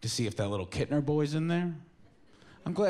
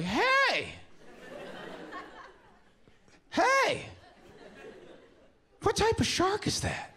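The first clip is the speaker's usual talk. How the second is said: much higher, yelled hey hey from far off; fat guy calling out; 3 dB quieter, slower than usual. Retold or imitated. Fat guy shouting from the dock at Dreyfuss, high mock yell. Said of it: "he's just like".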